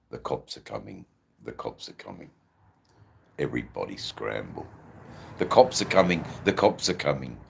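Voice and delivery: measured recital of a homemade poem; understated spoken-word delivery. Acted. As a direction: recite it in short rhythmic phrases. Here's one of my poems.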